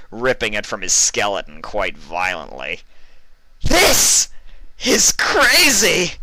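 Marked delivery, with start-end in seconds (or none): 3.6-6.1 very high, loud, drawn-out crazed yell; maniacal shout. A narrator's reading. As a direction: revel in the slaughter. Maniacal killing scene.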